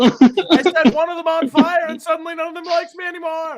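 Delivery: mock standup rant. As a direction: rant like a comedian. Stannis standup complaint.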